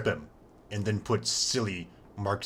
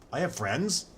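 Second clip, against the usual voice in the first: mock surprise; 8 semitones higher, 6 dB louder than usual. Mock astonishment at NPC line.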